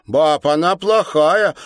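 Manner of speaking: put-on high, loud, slow little girl; a small child telling on someone; child's voice. A narrator's reading. Alyonka tells her grandmother, in a loud childish voice.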